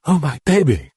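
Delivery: a mother's broken whimper; mildly whimpered. Acted. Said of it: "Chris whimpered".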